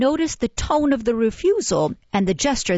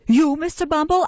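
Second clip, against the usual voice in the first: amazed; 9 semitones higher, 3 dB louder than usual. A narrator's reading. Mrs Mann amazed.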